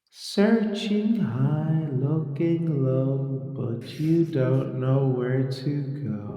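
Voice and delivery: slow, eerie voice from the shadows; dark whisper behind you. Acted. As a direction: draw each word out, haunting. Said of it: "You hear a voice in the shadows".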